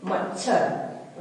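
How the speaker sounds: मच्छर as mach-chhar, said slowly; short च sound. Shown as a demonstration. Teacher repeating the correct form, short-च pronunciation. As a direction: dwell on the closed च, then release छर in मच्छर. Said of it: "च की उच्चारण छोटी".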